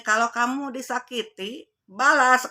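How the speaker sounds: firm retold command. Mother's firm advice to child.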